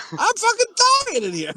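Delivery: high, hammed-up wail of agony; imitated sick friend. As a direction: mimic a friend dying over the toilet. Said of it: "And you're like".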